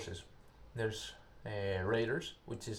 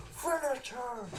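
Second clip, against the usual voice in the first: Mortal Kombat announcer; slower than usual. Retold or imitated. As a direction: call it like the fight announcer. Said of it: "like Mortal Kombat".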